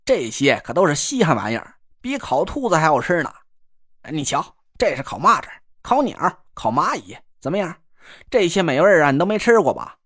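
lightly voiced teasing northern pal; cocky buddy voice. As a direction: needle your friend with a grin. Guo shows off roasted food.

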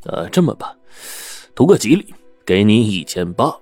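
unhurried calm. Acted. Shopkeeper calmly lowballing the old man, unhurried. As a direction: take your time, coolly talking him down. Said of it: "不慌不忙地说".

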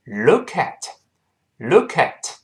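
"look at" run together as one word; linked pronunciation. Shown as a demonstration. Teacher shows how the words join, linked pronunciation. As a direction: slowly link the k into "at". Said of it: "跟后面那个at自然就连读成".

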